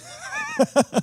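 a high, bright burst of mock laughter; retold laugh. A singer teasing the nervous producer, laughing. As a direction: laugh it off like it's nothing. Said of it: "And he starts laughing".

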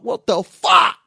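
high, loud outburst; hammed-up baffled yell; shocked disbelief. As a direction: exclaim it, appalled by the news. Acted shock at court letter.

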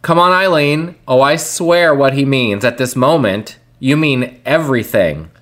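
measured spoken recital; deliberate, evenly phrased lyric reading; reading lyrics aloud. Acted. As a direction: recite the song words like a poem. Reads lyrics aloud as verse.

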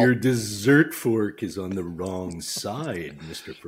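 slow, low, prim correction; snooty butler. Pretend. Mocking a fussy dinner guest to the host, slow prim voice.

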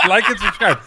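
loud, high mock channel plug; shouted plug. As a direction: blurt the plug out loudly. Blurts channel plug while laughing.

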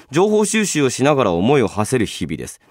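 ordinary talk, nothing marked

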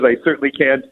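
normal talking voice

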